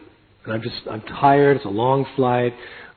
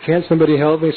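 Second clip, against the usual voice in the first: plea; 5 semitones higher, 5 dB louder, faster than usual. Retold or imitated. Pleading up stairs.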